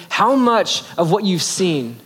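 a slow, weighty question to his apprentice; slow, probing question. Retold or imitated. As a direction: let each word land slowly as you test him. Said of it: "He's testing him by saying".

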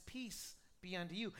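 soft, low blessing; hushed, calm greeting; gentle Jesus, repeating. Acted. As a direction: say it quietly and low, as reassurance. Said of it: "he says it one more time".

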